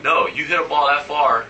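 slow mock Latin accent; imitated Latin accent. Miffed teammate scolding him after a long home run, light Latin accent. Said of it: "in his accent".

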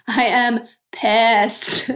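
I am pissed, stretched very slowly through a laugh; laughing repeat. Real, not acted. Admitting her anger again to listeners, slow and laughing. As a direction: laugh and drawl out each word. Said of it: "I'm really mad".

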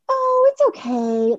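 very high, slow, strained Oh, it's okay. Retold or imitated. Woman at coffee counter to barista, squeaky high forced okay. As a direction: squeak it out high while hiding disappointment. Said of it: "her voice got really high".

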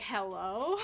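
playful pretend phone answer, HELLO rising into a question. Speaker pretending to answer a ghost's phone call, questioning HELLO.

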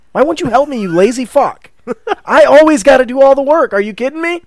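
high, loud exasperated rant; hammed-up angry player voice; angry at friend. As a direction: snap at the lazy imaginary friend. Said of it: "let's say".

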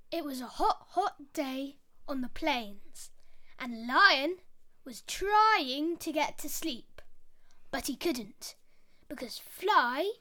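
put-on lively storyteller voice for kids; story narration. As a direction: read it like a bedtime fable. Storytelling a fable.

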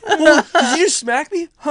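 high, loud indignant demand; mock confrontation. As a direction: play someone rudely woken, demanding answers. Acts out the woken woman confronting him.

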